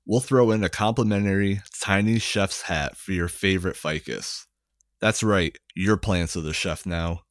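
hammed-up TV ad announcer. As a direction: sell it like an infomercial pitchman. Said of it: "Should I do the announcer voice?".

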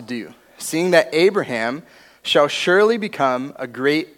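measured Bible reading to the group; a steady reverent reading of Genesis; scripture reading. Acted. Reads Genesis aloud.

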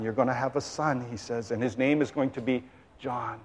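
low, hushed, gentle announcement; reassuring angel. Acted. Angel tells Zechariah he'll have a son, low and reassuring. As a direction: soften and drop the voice to reassure him. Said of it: "the angel says to Zechariah, "Do not be afraid".

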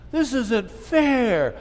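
mock childish protest, slow; a slow, whining "This isn't fair" to God; slow whiny complaint. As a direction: drag it out slowly like a sulky grumble. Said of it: "Have you ever said that?".

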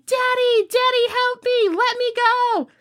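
put-on high, pleading child's cry for his dad; imitating a captured boy screaming for help; boy yelling. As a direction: beg your father to save you. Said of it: "the boy is yelling".

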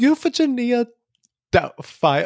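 lightly done British Doubtfire attempt; botched British accent. Attempting Doubtfire's name for the cohost, botched British accent. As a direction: have a shaky go at British. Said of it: "Why am I so bad today?".

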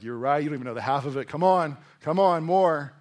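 mock vain king, building to loud urging; Herod egging on crowd. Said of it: "And Herod's like".

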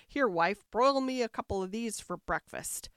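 loud, gruff giant demanding food; dim booming ogre. Acted. Ogre orders breakfast.

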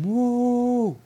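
re-enacted triumphant "woo"; mock victory scream. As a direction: whoop it high and long, holding back the volume. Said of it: "I scream".

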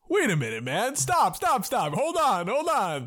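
high, urgent pleading; panicked character voice, pitch leaping up; frantic strangled victim. Acted. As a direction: beg your attacker to stop. Victim pleads while being strangled.

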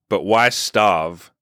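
slow, drawn-out punchline after a pause. Retold or imitated. Grandad delivering his belly-slapping joke, slow punchline. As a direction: imitate grandad drawing out the punchline. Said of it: "And then he'd pause".

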